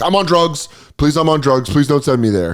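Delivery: pleading shout. Pretend. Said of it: "would immediately go like".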